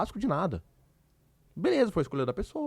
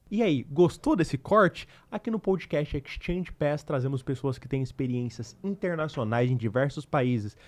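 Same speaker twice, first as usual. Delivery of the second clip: measured, deliberate promo voice-over; podcast outro read; slower than usual. Acted. Host asking viewers to subscribe, deliberate promo read. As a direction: read the channel plug slowly and clearly.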